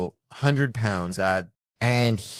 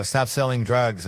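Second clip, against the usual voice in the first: yelled out a car window; 4 semitones higher, 4 dB louder, slower than usual. Retold or imitated. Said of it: "And I'll go".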